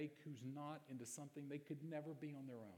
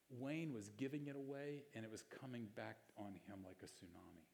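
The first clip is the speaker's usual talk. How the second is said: usual speaking voice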